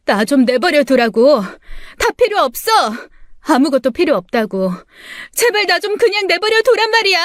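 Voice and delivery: high, fast frantic yell; screaming to be left alone. Acted. Daughter kicking the door, screaming at her family. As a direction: scream them away from the door. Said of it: "소리를 질렀죠".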